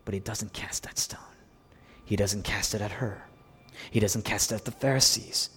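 suddenly low and soft; hushed restraint. Real, not acted. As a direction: drop to a quiet, measured preaching voice. Hushed drop after shouted climax.

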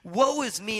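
high, slow anguished cry; Isaiah crying out in terror before God; crying out woe. Acted. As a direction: wail it out, rising. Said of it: "he cries out".

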